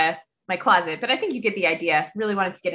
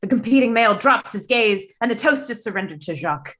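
put-on British accent. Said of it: "doing my best British accent".

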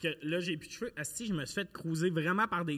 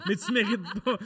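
laughing; 3 semitones higher than usual. Acted. Teasing listeners about promo code.

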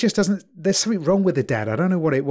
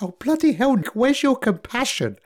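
higher, exasperated appeal to his wife; mock outraged exclamation; 7 semitones higher than usual. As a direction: act shocked at her coldness, half-joking. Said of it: "I'm like".

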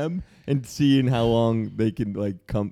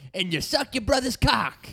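drill sergeant; 11 semitones higher than usual. Retold or imitated. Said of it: "for them to be like".

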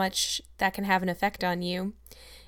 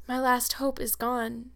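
slow, higher, resigned; calm despair; 4 semitones higher, slower than usual. Acted. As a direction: say it slowly as if all hope is lost. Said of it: "calm with despair".

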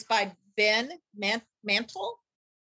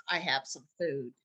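coaxing mother bird; 6 semitones lower, 4 dB quieter than usual. Acted. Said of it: "by the mother saying".

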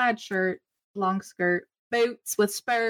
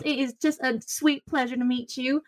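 gushing Madril voice; 5 semitones higher than usual. Acted. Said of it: "and she goes".

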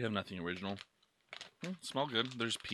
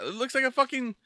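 put-on Dutch accent; 12 semitones higher than usual. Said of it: "that was Dutch accent".

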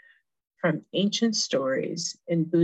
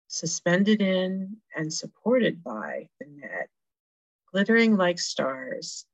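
story narration. A narrator's reading. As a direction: read it like a fable to families. Reads the Indra's net story.

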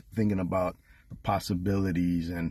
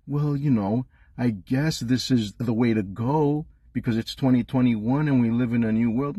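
higher-pitched mocking imitation; mock opposing fan; 4 semitones higher, 3 dB louder than usual. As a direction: mimic the other side's excuses, pitched up. Voicing opposing fans in a rant.

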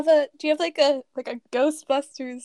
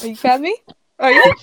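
needy plea; 8 dB louder, much faster than usual. Acted. Pleading for praise.

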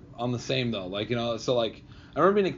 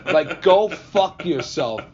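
Bill Burr; 4 semitones higher, 3 dB louder than usual. Retold or imitated. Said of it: "He's like".

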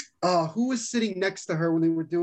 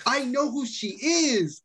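giddy freak-out; 4 semitones higher, slower than usual. Retold or imitated. Freaking out to family.

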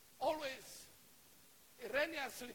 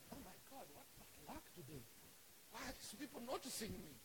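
soft grumbling to himself; hushed acted exasperation; dismayed aside; 2 semitones lower, 10 dB quieter than usual. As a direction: bemoan your luck under your breath. Acts Peter's dismayed aside.

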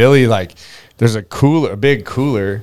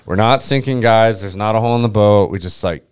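retold calm reassurance; staying calm. Captain reassures friends the boat isn't sinking, calm. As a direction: settle the crew in an even, everyday voice. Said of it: "staying calm".

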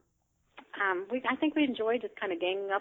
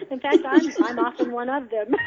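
laughing; 4 semitones higher, 9 dB louder than usual. Real, not acted. Admits being curmudgeon laughing.

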